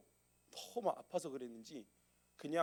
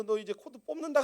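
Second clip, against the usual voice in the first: stern threat; 8 semitones higher, 7 dB louder than usual. Retold or imitated. Threatening to unplug TV.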